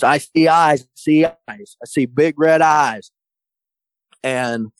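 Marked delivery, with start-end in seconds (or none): 0.0-3.1 retold scream. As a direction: relay the cameraman's panicked cry, pitched up. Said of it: "one of the cameramen screams".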